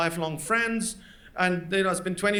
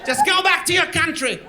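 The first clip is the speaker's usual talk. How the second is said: racist shout; 7 semitones higher, slower than usual. Retold or imitated. Old man yelling at immigrant to leave, shouting. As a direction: bark it like a redneck chasing you off. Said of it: "Then he goes".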